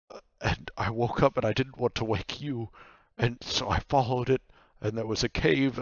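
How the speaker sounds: a touch flustered, tumbling explanation; lightly voiced sheepish nightmare; apologetic nightmare. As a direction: explain yourself guiltily, stumbling as you go. Nightmare explains itself to Vaku.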